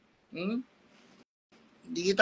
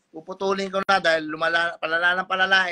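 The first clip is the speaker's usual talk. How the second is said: angry warning; 7 dB louder than usual. Real, not acted. Angry father warns bashers.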